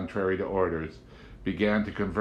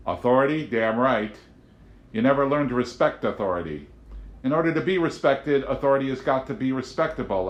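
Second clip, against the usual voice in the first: louder stern lecture; lecturing agent; 6 semitones higher, 5 dB louder than usual. A narrator's reading. Agent lecturing Amanda on law, loudly stern. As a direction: preach law and order at her.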